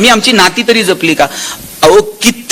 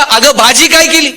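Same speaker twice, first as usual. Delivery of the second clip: higher-pitched acted call; 5 semitones higher than usual. Husband calls from the kitchen door, calling out. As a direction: call out to the wife, pitch raised. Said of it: "तिथून आवाज दिला".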